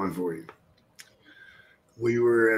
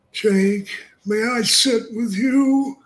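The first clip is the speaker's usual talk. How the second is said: high, slow, creepy mortician voice; a hammed-up funeral-director whine; Paul Bearer impression; 11 semitones higher, 4 dB louder, slower than usual. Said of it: "Paul Bearer comes in".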